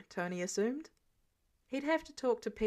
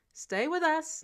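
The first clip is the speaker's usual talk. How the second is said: urgent plea; 6 semitones higher, 4 dB louder than usual. Acted. Tony urging the fading Peter.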